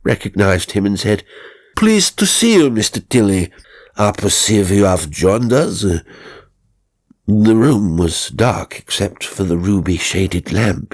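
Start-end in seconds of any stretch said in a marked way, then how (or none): 1.8-5.8 a hint of a stately emperor welcoming him; imagined Napoleon. A narrator's reading. Tilly imagines Napoleon greeting him, lightly voiced. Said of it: "How gratifying if Napoleon ... said".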